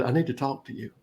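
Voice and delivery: imitating a solemn friend taking someone aside; serious. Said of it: "Take that serious look".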